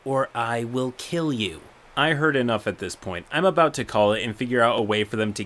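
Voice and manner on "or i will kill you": creepy calm threat. Retold or imitated. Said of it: "very calm in a creepy, threatening manner".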